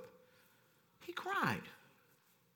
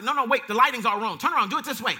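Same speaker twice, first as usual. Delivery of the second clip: fussy bride-to-be; 3 semitones higher, 10 dB louder than usual. Retold or imitated. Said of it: "she's like".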